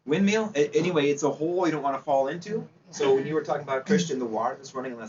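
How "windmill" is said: surprised. Real, not acted. Surprised at a student's suggestion.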